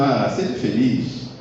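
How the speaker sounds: slow, easy wish, not a command; mere wish. Shown as a demonstration. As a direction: say it like a casual hope, drawn out. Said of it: "isso é uma ordem".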